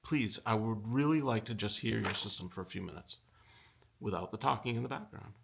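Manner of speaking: politely ask, mildly gentle tone; a light touch of kindness, asking a favor nicely; very kindly. Retold or imitated. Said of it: "very kindly just say".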